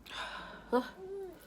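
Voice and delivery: high, tearful sighing breath. Real, not acted. Composing herself before resuming the miscarriage story, sighing. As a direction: let out a real sigh to regain composure. Pulling herself together while crying.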